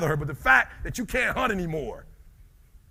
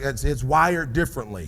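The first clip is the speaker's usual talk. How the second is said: mimicking the crowd's tired take; a dull office-worker delivery; like a nine-to-five worker; 3 semitones lower than usual. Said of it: "you just said it like you work a nine-to-five".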